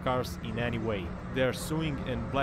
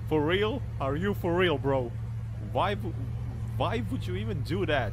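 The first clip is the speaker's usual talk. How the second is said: higher, louder exasperated yelling; hotheaded shouting; 4 semitones higher, 3 dB louder than usual. Real, not acted. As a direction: yell at the reckless driver in disbelief. Angry at reckless driver.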